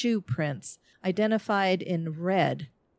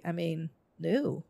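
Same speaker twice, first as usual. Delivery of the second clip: sputtering after a sip; words catching in the throat; choking on a drink; 6 dB quieter than usual. Real, not acted. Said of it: "She's choking on her drink".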